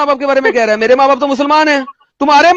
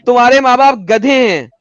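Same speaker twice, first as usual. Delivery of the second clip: declaimed quote. Acted. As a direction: deliver the verdict word by word. Quoting scripture at opponent, emphatically.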